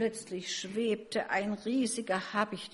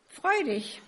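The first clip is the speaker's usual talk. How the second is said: higher, louder cheering-up call; 7 semitones higher, 5 dB louder than usual. A narrator's reading. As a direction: call out to cheer up a sad friend. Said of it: "Die anderen riefen". (fröhlicher, aufmunternder Zuruf)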